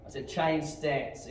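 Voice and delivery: slow, deliberate "change stance"; emphatic repetition. Real, not acted. Instructor repeating a missed command to student, slow and emphatic. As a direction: stretch out "change stance" so it is understood.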